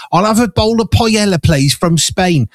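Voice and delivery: mock-order it like a hopeful shopper; mock supermarket order. Host pretending to order paella in a UK supermarket, lightly acted customer.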